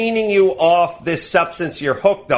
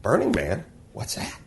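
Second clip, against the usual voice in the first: mocking clueless person; 8 semitones lower, 6 dB quieter, faster than usual. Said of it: "they go".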